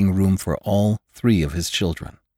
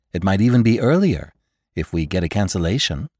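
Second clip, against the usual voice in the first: gracious society hostess. Acted. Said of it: "said the very warm voice of a hostess".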